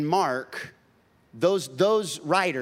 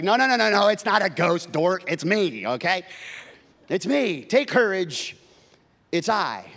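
1 exasperated Jesus; 3 semitones higher, 5 dB louder than usual. Acted. Jesus voiced, playful correction.

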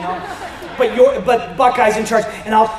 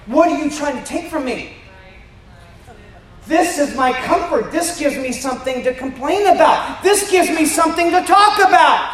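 grumpy worrier; 4 semitones higher than usual. Retold or imitated. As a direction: play someone clinging to their worry, building to a yell. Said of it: "we kind of want to bark at them".

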